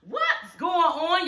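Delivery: high excited mock Angela squeal; hammed-up high gushing greeting. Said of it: "Angela like".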